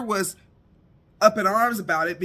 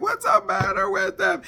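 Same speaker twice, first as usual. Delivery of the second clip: high, loud, scared cry; tearful alarm; 11 semitones higher, 5 dB louder than usual. Retold or imitated. Frightened younger brother cries out about his siblings, high and tearful. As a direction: call out near tears. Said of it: "he was to tears".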